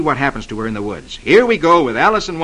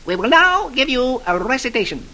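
higher, pompous twin announcement; twins speaking together; 8 semitones higher than usual. A narrator's reading. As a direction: announce it grandly in unison. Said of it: "they both say together".

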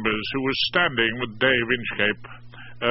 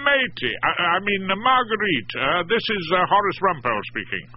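higher, friendly phone greeting; warm greeting; 8 semitones higher than usual. A narrator's reading. Barrister greeting the wife on the phone, warmly. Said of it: "I greeted her warmly".

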